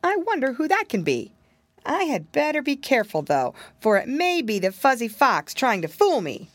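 put-on wary piggy boy musing to himself; piggy boy thinking. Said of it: "thought Curly Tail".

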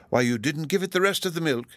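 high-pitched dignitary's voice; high character voice for a grand official; Lord Chancellor. A narrator's reading. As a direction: suggest it to a small child from on high in pitch. Lord Chancellor addresses small child.

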